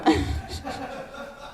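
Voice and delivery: airy, voiceless laugh; real laugh. Real, not acted. Speaker amused at her own fast talking, airy laugh.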